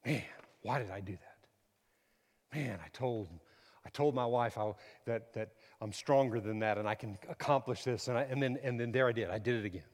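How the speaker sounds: regretful believer. Retold or imitated. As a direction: sigh it out like a man who slipped. Believer voiced regretting himself.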